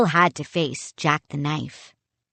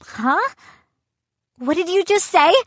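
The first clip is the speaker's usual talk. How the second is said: high, startled question; surprised cry; 11 semitones higher, 3 dB louder than usual. A narrator's reading. Boy astonished by the captain's answer, surprised. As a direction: catch him off guard, pitched up. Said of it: "I cried".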